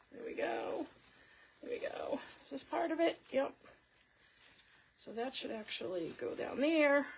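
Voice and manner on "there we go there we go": whispering. Real, not acted. Whispered to herself while crafting.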